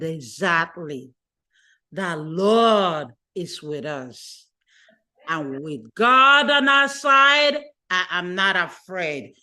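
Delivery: a lightly voiced calm husband reassuring his wife. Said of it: "The husband was calm".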